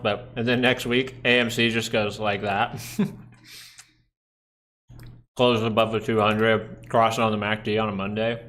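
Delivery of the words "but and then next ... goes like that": mouth full. Real, not acted. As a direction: still chewing while talking. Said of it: "sorry for talking with food in my mouth".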